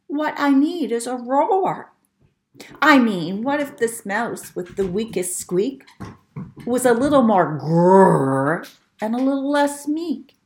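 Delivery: a hint of a small excited mouse; eager mouse voice. Mouse dreaming of roaring, lightly voiced and eager. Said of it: "he said".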